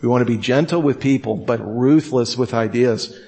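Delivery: "gentle with people" fast, "ruthless" slowed. Shown as a demonstration. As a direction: rush the first half, lean on "ruthless". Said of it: "Let me repeat that".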